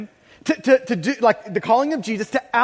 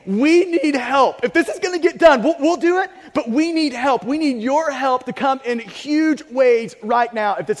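pleading; 2 semitones higher than usual. Acted. Disciples pleading, arms up.

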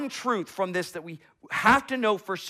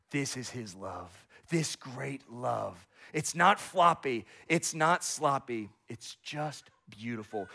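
tender awe; 3 semitones lower, slower than usual. Real, not acted. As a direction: linger over how beautiful this love is. Pastor softening on God's love.

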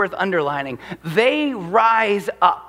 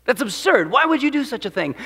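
scornful disbelief; 4 semitones higher than usual. Acted. Voicing the psalm's derision.

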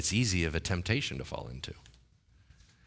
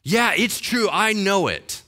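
high, loud sulky whine; mock whiny insistence; 10 semitones higher, 8 dB louder, slower than usual. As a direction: pout it like a stubborn child. Elijah insisting, voiced.

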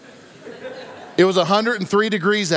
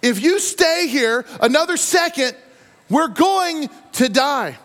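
earnest Egyptian dread; 7 semitones higher, slower than usual. Acted. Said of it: "the Egyptians were not being overdramatic".

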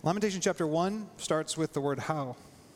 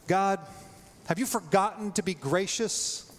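bold lament prayer; 3 semitones higher than usual. Pretend. Tim praying a blunt lament.

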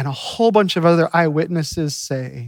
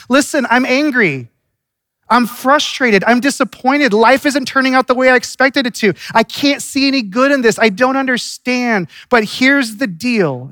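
Martha's frustration; 5 semitones higher than usual. Acted. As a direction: voice Martha's anger earnestly but lightly. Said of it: "Martha says".

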